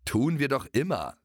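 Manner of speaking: whinnying. Acted. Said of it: "wieherte Schoko zurück".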